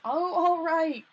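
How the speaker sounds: loud, slow, exasperated give-in; irritated. A narrator's reading. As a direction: grudgingly give in, annoyed.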